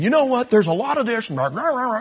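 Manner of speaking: lightly hammed-up browbeating; mock forceful rant. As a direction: imitate a man laying into someone. Retelling a forceful man.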